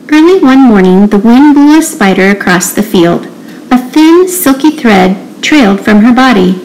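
put-on measured read-aloud to children; storybook reading. A narrator's reading. Teacher reading The Very Busy Spider, storybook narration. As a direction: read it out clearly, phrase by phrase. Reads a picture book aloud.

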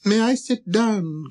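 slow, high, hesitant little prince; timid inquiry. Acted. Little prince asking the king's leave, timid and high. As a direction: ask shyly in a small high voice. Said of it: "came now a timid inquiry from the little prince".

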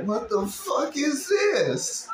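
high, slow, outraged mock shout; hammed-up high shocked yell; imitating the man. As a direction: play the disgusted guy in the clip. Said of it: "This man was like".

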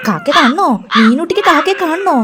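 put-on playful cooing to a baby; coaxing baby talk. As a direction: distract a crying baby with a slow question.

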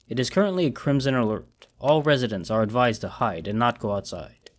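flat robotic recording. Acted. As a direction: read it like a machine. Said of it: "the robotic voice".

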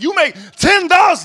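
hammered out like a final insult; loud, high put-down. Retold or imitated. Comic imitating the lawyer girlfriend yelling at her boyfriend. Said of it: "She said".

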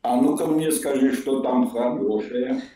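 ordinary delivery

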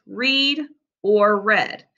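"read" first as "reed", then as "red", slowly; both ways slowly. Shown as a demonstration. Teacher to pupils: two ways to say "read". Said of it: "we can say this word in two ways".

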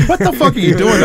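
high, loud retold outburst; mock exasperation. Teller voices his partner fed up with random numbers, exasperated. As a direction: imitate a partner at his wit's end.

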